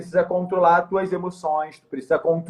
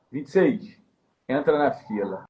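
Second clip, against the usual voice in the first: calm sergeant; 5 semitones lower, 3 dB quieter than usual. Retold or imitated. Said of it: "pensa numa pessoa calma".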